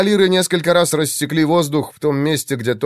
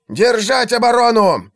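panicked shout; 10 semitones higher, 3 dB louder than usual. A narrator's reading. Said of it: "донёсся голос Игнация".

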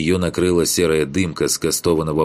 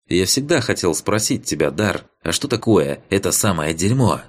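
put-on curious young man; 4 semitones higher than usual. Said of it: "С нескрываемым любопытством ... поинтересовался".

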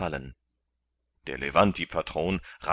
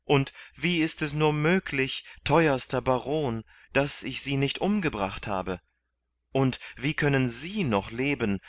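overjoyed questions; 7 semitones higher, 4 dB louder than usual. A narrator's reading. Kandid embracing friends.

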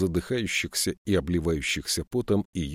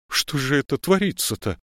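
put-on high, louder old woman's protest, scared yet bold; cowardly defiance; 7 semitones higher, 4 dB louder than usual. A narrator's reading. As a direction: bluster at the policeman while afraid. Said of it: "с трусливым вызовом заговорила бабка".

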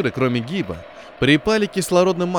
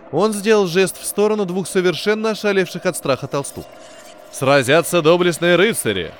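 grand announcement; 2 semitones higher, 3 dB louder than usual. Acted. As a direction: sell the adventure like a carnival barker. Captain's grand speech to passengers.

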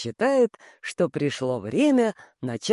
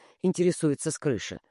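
ordinary delivery

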